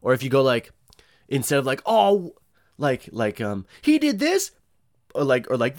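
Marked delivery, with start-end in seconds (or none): 1.9-2.3 mock gasp. Mock gossip quote. 3.8-4.5 high, louder catty tattle; hammed-up gossip voice; mock gossip.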